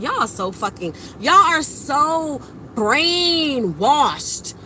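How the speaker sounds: drawn-out, slowed scornful verdict; dragging each word in slow disbelief; disgusted inner remark. Retold or imitated. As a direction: stretch it out like you can't believe them. Inner reaction to people's talk.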